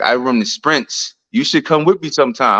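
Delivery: a light imitation of an African accent, slowed down; quoting a friend in a mild African accent. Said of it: "in his African accent".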